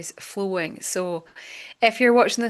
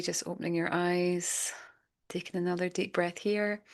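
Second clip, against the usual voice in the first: guided meditation. Acted. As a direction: ease listeners gently through a visualisation. Leads a guided visualisation.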